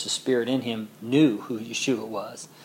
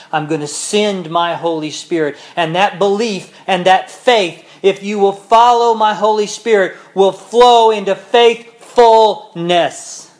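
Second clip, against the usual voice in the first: rising promise; 6 semitones higher, 11 dB louder than usual. Acted. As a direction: swell into a fervent promise. Yeshua's promise voiced at full force.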